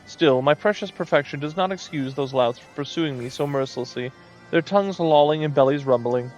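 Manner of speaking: lightly voiced preening moogle; a hint of a pompous little moogle; vain moogle voice. Reads moogle dialogue aloud.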